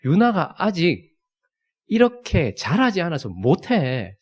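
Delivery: put-on slow, gentle consoling of a crying child; dad gently consoling crying daughter; comforting. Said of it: "유나를 위로한다고".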